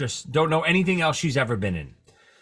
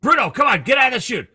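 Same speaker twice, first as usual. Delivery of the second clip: louder, higher call to a dog; 8 semitones higher, 5 dB louder, faster than usual. Retold or imitated. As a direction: shoo the big dog away. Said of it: "you'd call Bruno over".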